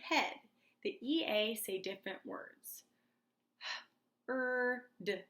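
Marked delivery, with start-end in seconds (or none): 4.3-4.8 "Er" held as one drawn-out sound; isolated vowel sound. Shown as a demonstration. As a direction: sound out "Er" on its own, as in heard. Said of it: "The E A say er".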